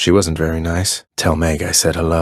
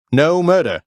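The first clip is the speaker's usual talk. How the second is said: much higher and louder, flustered denial; exasperated shout; 10 semitones higher, 5 dB louder than usual. Acted. Zagreus shouting at the Fury to drop the murder talk, loud. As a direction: yell it to shut the accusation down. Repeated line, shouted take.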